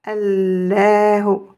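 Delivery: Allahu lentement, chaque syllabe détachée; lecture lente. Shown as a demonstration. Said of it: "vous êtes capable de le lire". (Allahu lu lentement)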